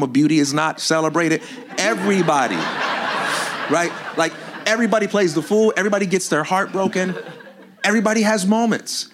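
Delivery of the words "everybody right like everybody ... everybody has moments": laughing emphasis. Real, not acted.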